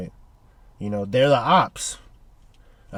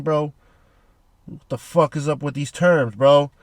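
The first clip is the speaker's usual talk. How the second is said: fast, heated trash talk; mild hammed-up threat; imitating Vegapunk chewing out Saturn; mock mad rant. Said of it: "Bro's mad".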